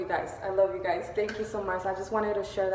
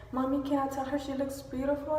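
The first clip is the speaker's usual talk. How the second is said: put-on little girl; 6 semitones higher than usual. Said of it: "very little cute girl".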